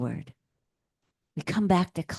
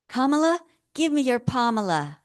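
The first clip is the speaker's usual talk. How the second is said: sketch quote; 6 semitones higher than usual. Retold or imitated. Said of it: "on Saturday Night Live".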